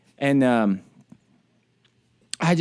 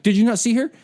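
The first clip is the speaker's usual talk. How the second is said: sharp, louder scolding again retold; indignant sergeant rebuke, louder; aggressive rebuke; 7 semitones higher, 4 dB louder, faster than usual. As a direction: scold him like the sergeant did. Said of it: "She was like".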